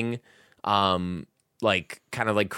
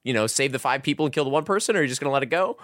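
slightly raised questioning voice; a hint of a game character's challenge; trolley game characters asking the player what they'll do; lightly voiced characters; 5 semitones higher, faster than usual. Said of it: "they're like".

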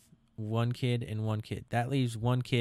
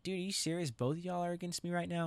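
indignant protest; 8 semitones higher, 4 dB quieter than usual. Retold or imitated. Kid protesting to grandparents.

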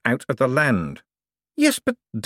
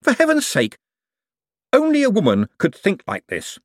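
high-pitched exasperated rant; worked-up, indignant tirade; hysterical; 8 semitones higher, 4 dB louder than usual. A narrator's reading. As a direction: rant in a raised, agitated pitch. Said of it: "no need to get hysterical".

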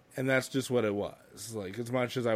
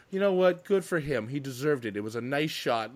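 nice; 4 semitones higher than usual. Retold or imitated. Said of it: "the nicest way of putting things".

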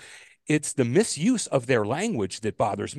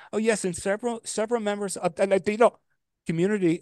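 high, lightly put-on Spanish accent on the word Latino; mock accent slip; 9 semitones higher than usual. Lady on the news, mock-imitated slipping into a Spanish accent. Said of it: "that changing of the voice".

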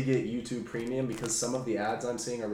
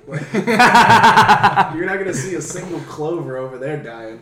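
put-on Irish accent; 4 semitones higher, 11 dB louder, slower than usual. Continues the Irish bit.

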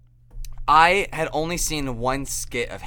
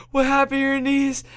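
shocked son; 14 semitones higher, 7 dB louder than usual. Retold or imitated. Son shocked at mom's bloody knees.

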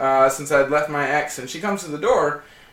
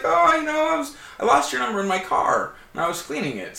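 higher, a lightly voiced flustered girlfriend; fiancée's excuse; 9 semitones higher than usual. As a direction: play her apologetic excuse, pitched up. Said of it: "She's like".

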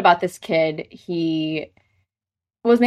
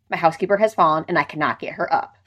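deadpan; faster than usual. Retold or imitated.

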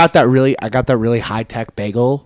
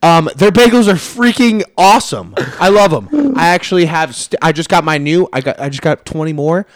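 higher, louder hammed-up ad voice for Seth; mock Seth ad read; 6 semitones higher, 6 dB louder than usual. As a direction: pitch the bagels like a goofy spokesman. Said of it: "say what he wants to say".

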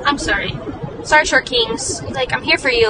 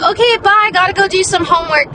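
fake cheerful goodbye; 6 semitones higher than usual. Fake excuse to end date.

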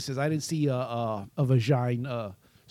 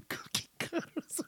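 laughing; 11 semitones higher, 12 dB quieter than usual. Real, not acted. Giggling through punchline.

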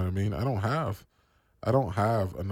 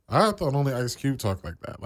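normal talking voice

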